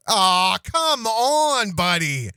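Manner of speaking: high put-on voice, pleading; funny character voice. The voice that comes out, pleading with a buddy. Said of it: "it comes out in".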